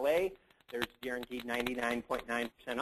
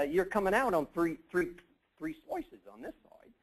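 higher, roughly imitated Australian voice; attempted Aussie accent; 5 semitones higher than usual. Retelling a colleague's warning about the fence, rough Aussie accent. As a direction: have an imperfect go at sounding Australian. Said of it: "he had a bit of an Aussie accent".

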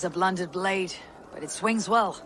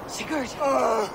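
calling out; 7 semitones higher than usual. Acted. Vision, calling to brother.

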